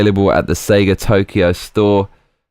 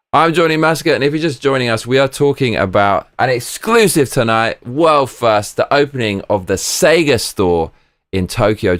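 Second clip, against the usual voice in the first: higher, punchy anchor intro; mock news anchor; 3 semitones higher than usual. Introducing himself to new viewers, a mock anchor read. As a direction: announce it like breaking news.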